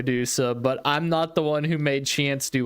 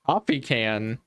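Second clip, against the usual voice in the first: low puzzled echo; 7 semitones lower than usual. Real, not acted. Puzzled echo of odd phrase.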